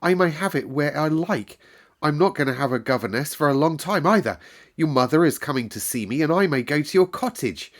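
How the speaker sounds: a hint of a girl bubbling over with news; girl telling the maid her news; excited girl. A narrator's reading. Girl voiced in story.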